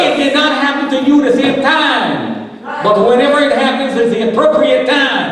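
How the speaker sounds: fervent preaching. Real, not acted. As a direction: preach it to the congregation with full conviction.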